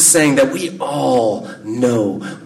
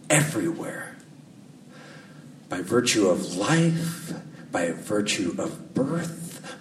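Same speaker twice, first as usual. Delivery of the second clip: slow, hushed sermon delivery with long pauses; unhurried, solemn pulpit cadence; reflective preaching; 5 dB quieter, slower than usual. Real, not acted.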